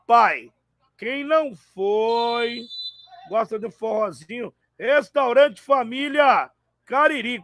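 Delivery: upbeat live ad read; sponsor ad read. Acted. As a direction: sell it like a radio spot. Live sponsor read mid-match. (leitura de anúncio ao vivo)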